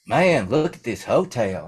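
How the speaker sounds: awestruck small-towner. Retold or imitated. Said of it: "this guy has never been out of this town".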